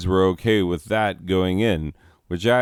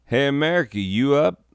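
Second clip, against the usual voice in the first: higher, coy late-night ask; flirty late-night voice; 7 semitones higher, 3 dB louder than usual. Acted. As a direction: tease it like a late text. Acting out a late text.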